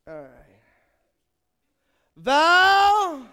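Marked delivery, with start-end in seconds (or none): 2.1-3.3 very loud, high laughing call; laughing shout. Real, not acted. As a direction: shout her name through a laugh.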